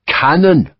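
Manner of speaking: put-on curt one word in a French accent; laconic. French captain pointing at the fort, laconic. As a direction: drop it short and dry. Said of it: "Lacroix said laconically".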